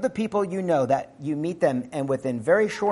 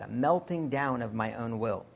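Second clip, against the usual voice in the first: hushed repeat; 4 semitones lower, 8 dB quieter than usual. Acted. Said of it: "Think about that".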